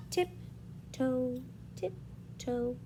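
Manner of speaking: soft, careful tiptoeing voice; stealthy. A narrator's reading. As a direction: creep along word by word. Animals creep up to nut.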